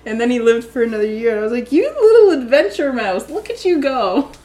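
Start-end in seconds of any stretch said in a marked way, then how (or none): 1.7-4.3 cooing at pet. Retold or imitated. Praising the rescued hamster.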